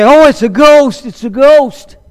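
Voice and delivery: high, loud cry of mock fright; frightened disciples. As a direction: yelp that it's a ghost. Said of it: "at first they say".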